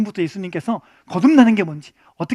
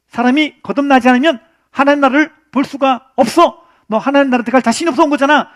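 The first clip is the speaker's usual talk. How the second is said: blunt voice; 2 semitones higher, 5 dB louder than usual. Retold or imitated. Jesus voiced bluntly confronting Nicodemus.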